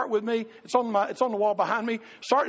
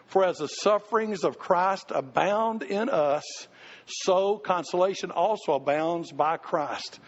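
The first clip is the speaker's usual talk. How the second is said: slow, measured Bible reading; scripture reading; 3 semitones lower, slower than usual. Acted. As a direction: read the verse slowly and solemnly. Reads scripture aloud.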